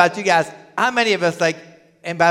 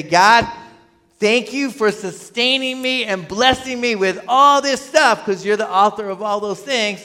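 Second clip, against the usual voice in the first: raised, emphatic voice of thanks; fervent prayer; 4 semitones higher, 4 dB louder than usual. Acted. Worshipper thanking God over the basket of produce, fervent. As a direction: pray it out with energy.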